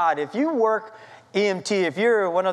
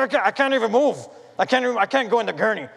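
acted helpless protest; 3 semitones higher, faster than usual. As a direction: stammer out a retold panicked refusal. Acted refusal to the medic.

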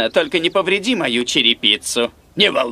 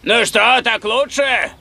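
higher, raised questioning call; 4 semitones higher, slower than usual. Acted. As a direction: call from the roof to those inside. Calls from roof to house. (громко спрашивает с крыши)

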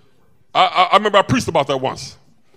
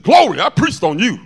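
mock triumph; 6 semitones higher, 8 dB louder than usual. Retells his relieved exclamation to her.

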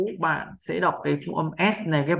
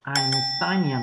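"Einstein, niềm" run together more quickly; quicker reading; much slower than usual. Shown as a demonstration. Teacher building speed once learners are used to it, quicker "Einstein, niềm". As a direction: join "Einstein, niềm" up into one word. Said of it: "tăng tốc độ dần dần lên".

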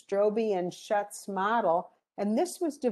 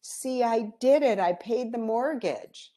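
tearful triumph; 4 semitones higher, 4 dB louder than usual. Retold or imitated. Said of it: "she bursts into tears and she says".

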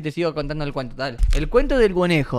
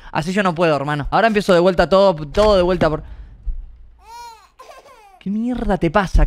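mock scolding; 4 semitones higher than usual. Scolds the baby for interrupting.

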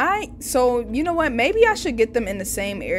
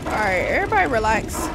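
brisk, only slightly raised order; quick settling command; 4 dB louder, faster than usual. Real, not acted. Player telling game figures to relax, brisk and controlled.

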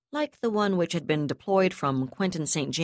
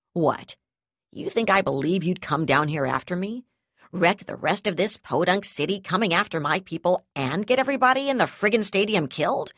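angry sneer; 2 semitones higher, 3 dB louder than usual. Acted. Yusul sneering, furious.

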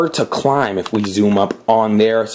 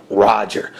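a touch lower, clipped henchman "Roger."; lightly voiced goon; 3 semitones lower than usual. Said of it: "there's your little voice there".

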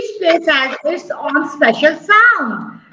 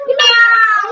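higher mewing meow; cat meow; 4 semitones higher than usual. Shown as a demonstration. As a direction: mew like a cat for the class. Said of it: "Sound of cat".

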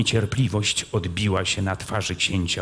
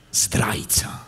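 hissed whisper of the word; whispered insult. Retold or imitated. Kmicic recalling being called traitor, whispered. Quoted insult spoken low.

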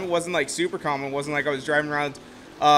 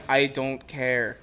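slow, lower, flat dismissal; bored girlfriend; 5 semitones lower, 3 dB quieter, much slower than usual. Retold or imitated. Girlfriend dismissing the Aston Martin, slow and lower. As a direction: brush him off, slow and unimpressed. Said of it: "she's like".

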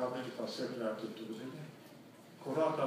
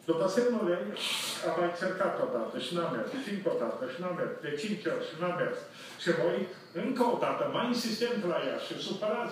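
mounting agitation; 4 semitones higher than usual. Retold or imitated. Growing frustration at pump.

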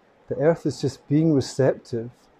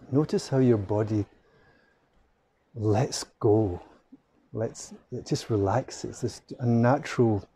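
guided meditation. Acted. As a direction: gently lead them into the breath. Leads a breathing meditation.

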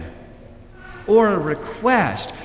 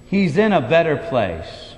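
mock comforting pat; 4 semitones lower than usual. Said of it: "pat her on the back and say".

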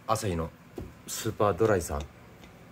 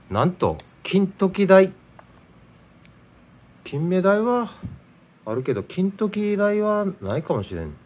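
higher, louder, slow proud announcement; excited reveal; 9 semitones higher, 5 dB louder, slower than usual. Real, not acted. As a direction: show off the catch with a flourish. Announcing a rare fish. (誇らしげに発表)

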